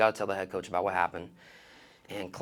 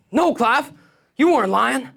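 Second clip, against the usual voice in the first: high coaxing voice; 13 semitones higher, 7 dB louder, slower than usual. Retold or imitated. Coaxing the kid.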